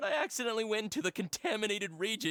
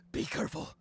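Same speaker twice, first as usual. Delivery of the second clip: whispered warning; faster than usual. Acted. Ominous warning about machines.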